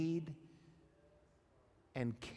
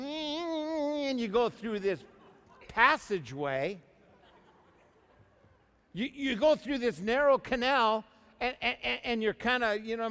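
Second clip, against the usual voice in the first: much higher, louder, straining through the canal; dramatic birth story; 8 semitones higher, 6 dB louder than usual. Acted. Preacher acts out a baby's birth to congregation, high and loud. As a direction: push it out like being squeezed through.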